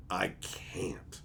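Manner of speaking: soft, nearly whispered admission; hushed and helpless; resigned. Real, not acted. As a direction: let it out under your breath, defeated. Helpless admission after pause.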